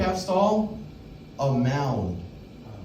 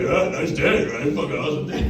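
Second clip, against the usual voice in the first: fake friendly. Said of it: "That's what I said".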